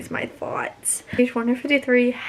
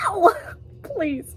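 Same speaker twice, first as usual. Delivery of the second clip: anguished cry; 8 semitones higher than usual. Real, not acted. Reacting to a character's death.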